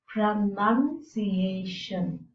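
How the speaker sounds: pronunciation said very slowly, each syllable separated; careful pronunciation model. Shown as a demonstration. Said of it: "so that we are able to pronounce them".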